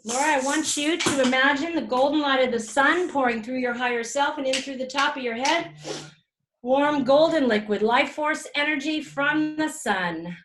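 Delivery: guided visualization. Acted. Healer guiding Laura through golden light, soothing. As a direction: pour the light over her gently.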